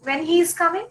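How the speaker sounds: a mock learner's question; wrong question imitated. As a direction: mimic the common mistake, pitch up.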